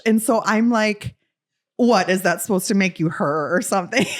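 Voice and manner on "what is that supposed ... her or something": put-on half-shouted drunk challenge; mock drunken challenge. Drunk girl heckling a rapper, mock shouting. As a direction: heckle her like a tipsy fan. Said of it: "Oh, you're going off".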